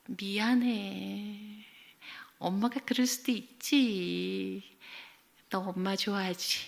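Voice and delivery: slow, drawn-out soothing mother; apologetic coaxing. Retold or imitated. Mother apologizes to sulking child, coaxing. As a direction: imitate a parent sweetly placating a child.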